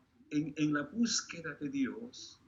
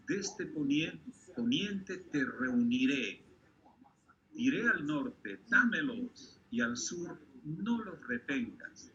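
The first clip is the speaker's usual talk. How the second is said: measured, emphatic reading aloud in short phrases; solemn scripture reading. Acted. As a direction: proclaim the verses deliberately, pausing after each phrase. Reads scripture aloud to congregation. (lectura solemne de la Biblia)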